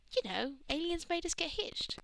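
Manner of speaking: high-pitched, knowing explanation; meaningful hint. A narrator's reading. Donna explains the wedding to Rose, meaningful hint. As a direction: spell it out with voice lifted. Hinting awkwardly at a marriage.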